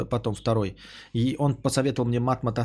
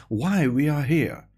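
English accent; slower than usual. Shown as a demonstration. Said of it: "могу прекрасно прочитать это с английским акцентом".

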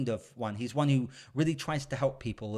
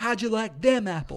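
much higher, louder taunt, hamming up the hero's gloat; 9 semitones higher, 4 dB louder than usual. Retold or imitated. Quoting the famous movie line to a friend, hammed-up gloat. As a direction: rub it in, cocky and loud. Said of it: "It's like".

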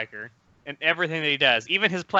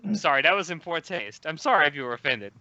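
fake apology; 2 semitones lower than usual. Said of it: "now that's offensive".

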